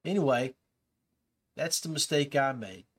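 normal talking voice

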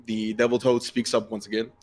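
ordinary talk, nothing marked

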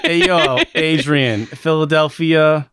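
hammed-up Philadelphia call-out; lightly put-on Philadelphia accent, slowing at the end; mock Philadelphia accent. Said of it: "This is my Philadelphia accent".

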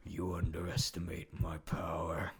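low, smug villain line; lightly voiced smug Snoke; smirking villain. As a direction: sneer it with a smirk. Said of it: "Snoke smirks".

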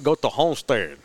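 Homestead said in imitated Cuban English; Cuban accent. Cuban worker directing a driver to Homestead, Cuban accent. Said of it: "that Cuban accent kicked in".

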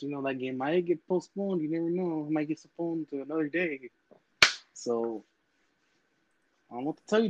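trash-talking wrestler cutting a promo; wrestling promo. Acted. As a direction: hype it up like a heel wrestler. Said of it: "if you wanna take this time to fucking cut a promo".

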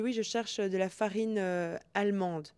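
lightly imitated Hispanic accent, "allemande" said slowly in place of "amande". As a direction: mimic the Spanish customer's accent as she says "farine allemande". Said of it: "elle avait un accent hispanique". (imitation légère d'accent hispanique, « allemande » dit lentement)

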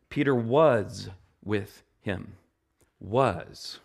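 slow, weighty "was"; stress on was. Shown as a demonstration. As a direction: lean on the word "was". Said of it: "stressing the past tense".

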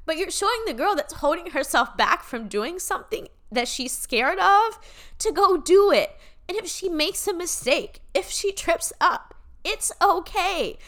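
moved almost to tears, pushing through; emotional, voice lifting. Real, not acted. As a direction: voice rising with real emotion. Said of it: "this is making me emotional".

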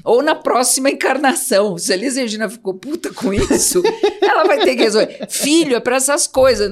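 chuckling through the words; amused, laughing while talking. Real, not acted. Joking about a singer and her children.

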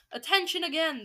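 lightly voiced witch calling the room to attention; a hint of a shouting witch. Grand High Witch calling her audience to attention, mild shout. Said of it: "the Grand High Witch was shouting".

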